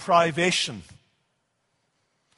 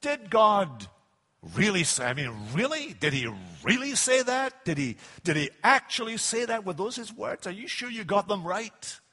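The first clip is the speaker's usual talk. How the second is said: trailing off softer, sneering doubt; mock sarcastic devil; 4 dB quieter than usual. Devil sneering to Eve, softly sarcastic. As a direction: needle her with quiet mocking questions. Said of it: "You sense the sarcasm in his voice".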